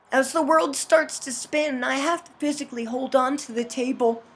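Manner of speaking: measured visual-novel narration; story narration. A narrator's reading. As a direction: read the game's narration aloud in an even storytelling voice. Reads game narration aloud.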